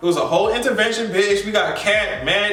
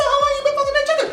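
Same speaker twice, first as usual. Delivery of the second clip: laughing quote; much faster than usual. Retold or imitated. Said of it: "She said".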